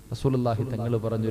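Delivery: normal talking voice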